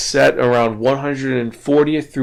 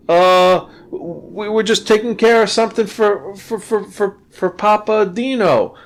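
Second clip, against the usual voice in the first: higher, stammering underling caught out; nervous stammer; 8 semitones higher than usual. Acted. Gang underling stammering excuses to his angry boss, higher and nervous. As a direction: trip over the words, pitch up, scrambling for an excuse.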